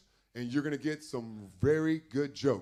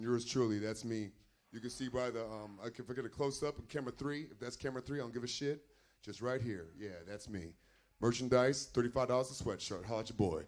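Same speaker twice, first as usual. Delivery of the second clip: much softer, low-key self-plug; throwaway aside; 4 semitones lower, 10 dB quieter, faster than usual. Real, not acted. MC plugging himself to the camera, quiet aside. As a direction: drop right down, as if off to the side.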